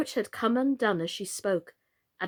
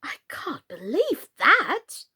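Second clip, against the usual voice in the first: cry out; 5 semitones higher, slower than usual. Acted. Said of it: "cried Alice".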